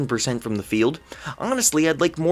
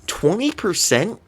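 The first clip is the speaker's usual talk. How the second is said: disbelieving question; 2 semitones higher than usual. Real, not acted.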